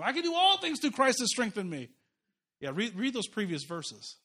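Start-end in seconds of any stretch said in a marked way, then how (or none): 0.0-1.9 brisk, higher, glib recitation; mock popular quote. Preacher imitating how people glibly quote the verse, mocking. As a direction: toss it off like a bumper sticker. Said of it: "we quote four thirteen all the time".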